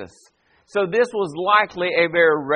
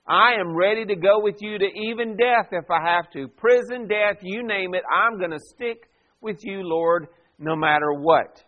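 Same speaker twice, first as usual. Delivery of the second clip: emphatic, self-assured pledge of loyalty; imitating an eager, adamant follower; emphatic vow. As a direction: insist on it as the boastful disciple. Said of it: "he said it emphatically".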